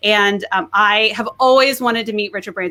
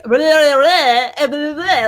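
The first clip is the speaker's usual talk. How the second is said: higher, louder breathless fangirl babble; gushing babble; 5 semitones higher, 5 dB louder, much slower than usual. Retold or imitated. To Richard Branson, a gushing excited babble. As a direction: rattle off excited nonsense. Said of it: "And I am like".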